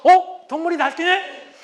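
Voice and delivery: high, slow amused scoff; calm inner mockery. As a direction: calmly sneer in your head. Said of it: "아주 편안하게 마음속으로". (속으로 편안하게 비웃는 남편)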